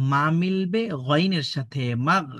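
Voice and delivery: drawn-out chant rising into the joined syllable; spelling drill recitation. Shown as a demonstration. Teacher models joining ma with ghain, drawn-out drill recitation. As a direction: stretch each step of the spelling.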